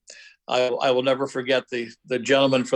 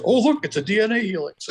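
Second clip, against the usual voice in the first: gushing entertainer voice; 6 semitones higher than usual. Retold or imitated. Mocking balloon animal guy's patter.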